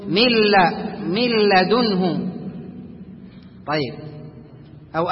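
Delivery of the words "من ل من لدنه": من لدنه very slowly as milladunhu, lam doubled; correct full merge. Shown as a demonstration. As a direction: demonstrate slowly, no trace of the nun. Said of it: "وإنما تقول". (من لدنه بإدغام كامل وببطء)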